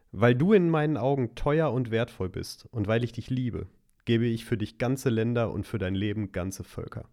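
slow, deliberate verse reading; scripture reading. Acted. Reading a favourite Isaiah verse to a friend, scripture reading. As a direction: let each phrase of the verse land slowly.

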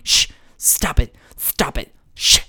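mock exasperated mom voice, pitch climbing; scolding mother. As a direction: shush and scold a crying child in mimicry. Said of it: "her scolding her baby for crying".

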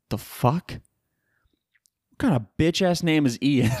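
slow, breathy scornful whisper. Real, not acted. Podcaster mocking the storm name, scornful whisper.

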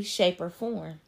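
yawning mid-sentence. Real, not acted. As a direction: talk through a yawn. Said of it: "'cause I'm yawning".

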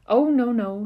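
loud, high blustering protest. Acted. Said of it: "she blustered".

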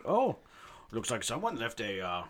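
lightly put-on Swedish accent; a Swedish accent that drifts Canadian. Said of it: "All my Swedish accents sound Canadian".

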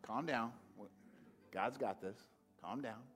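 quiet them like a steady leader; calm reassurance. Retold or imitated. Elisha calming the panicking prophets, soothing. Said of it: "That's not what he did".

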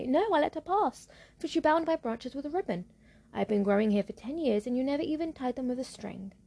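a hint of a reproachful tree; birch tree voice. Birch tree answers witch.

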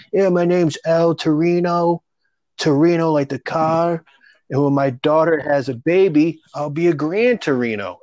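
high, slow, put-on comic's voice; imitating Al Torino. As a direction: ham up a washed-up club comic. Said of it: "he looked like a Mario brother on crack".

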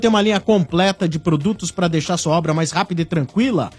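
upbeat radio ad delivery; ad read. Acted. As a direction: sell it like a radio spot. Ad read on air. (leitura de comercial)

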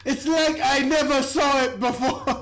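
put-on Chicago accent through a laugh; fake Chicago accent. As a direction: redo it in a hammed-up Chicago accent. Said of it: "There it is".

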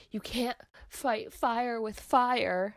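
slow, hammed-up action-hero delivery; corny hero line. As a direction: deliver it like a cheesy movie one-liner, slowly. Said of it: "he has this really corny line".

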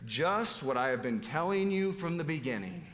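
pointed emphasis on "Just"; a touch of exasperated sarcasm; sarcastic. Acted. Preacher rereads Jesus's answer to the doubters, mildly sarcastic. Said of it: "some sarcasm in it".

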